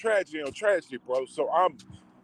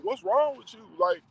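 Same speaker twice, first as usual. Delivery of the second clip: put-on girlfriend complaining; 8 semitones higher than usual. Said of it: "she was like".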